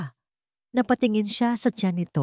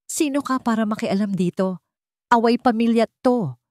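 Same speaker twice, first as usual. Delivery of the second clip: higher, louder cocky sneer; arrogant; 5 semitones higher, 3 dB louder than usual. A narrator's reading. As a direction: brush him off with swagger. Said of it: "mayabang na sabi ni Anton".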